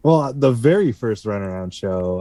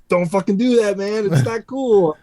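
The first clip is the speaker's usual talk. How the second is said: retold scolding; 9 semitones higher than usual. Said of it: "I was like".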